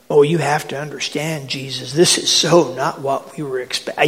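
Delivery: acted grumbling from the crowd; a disgruntled follower objecting; grumbling complaint. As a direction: complain in a quick, put-out rush. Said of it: "and then the grumbling, and the complaining".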